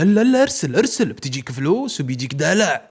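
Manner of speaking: a hint of a whispering devil, pushing hard on the first words; tempting devil voice. Devilish inner voice urging Salem to send the message. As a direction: egg him on like a little devil. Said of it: "عقله شيطاني سالم يقول له".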